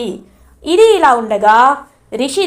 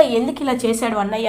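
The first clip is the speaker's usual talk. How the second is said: softer, hurt lament; sad question; 6 dB quieter than usual. Retold or imitated. Rishi asks why his brother did this, soft sad lament. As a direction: ask it quietly, heartbroken. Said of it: "చాలా బాధపడుతూ".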